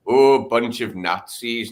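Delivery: mocking leftists. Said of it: "people on the left going".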